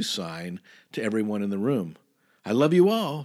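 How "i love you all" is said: strange growled voice. Retold or imitated. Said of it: "she growled in this strange voice".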